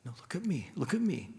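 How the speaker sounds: put-on soft, gentle calming of a child; gentle parent. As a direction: hold their gaze and soothe them softly. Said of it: "we would take their face gently".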